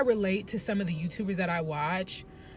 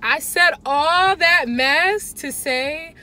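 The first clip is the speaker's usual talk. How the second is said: higher, much louder, slow, laughing; amused self-mocking wrap-up; laughing at herself; 8 semitones higher, 10 dB louder, much slower than usual. Real, not acted. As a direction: laugh at your own long ramble. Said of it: "wrapping up a long ramble".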